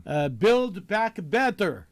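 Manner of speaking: put-on slow, heavy German-accented slogan; mock German accent. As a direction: mimic a German leader saying the slogan, drawn out. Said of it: "that's a good try on the German accent".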